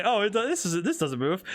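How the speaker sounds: laughing quote. Retold or imitated. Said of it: "I say".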